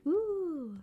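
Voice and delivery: a sudden high ooh, caught off guard; surprised ooh. Real, not acted. Streamer spots her own stream on Amazon, surprised ooh. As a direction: react as if something just caught your eye.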